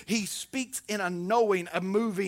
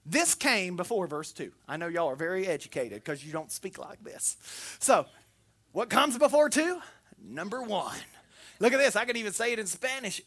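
usual speaking voice

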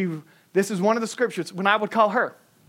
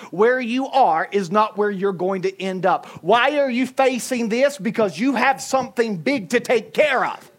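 louder and higher toward a shout; building preaching; 5 semitones higher, 4 dB louder than usual. Real, not acted. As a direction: climb to a preaching peak. Preaching climax.

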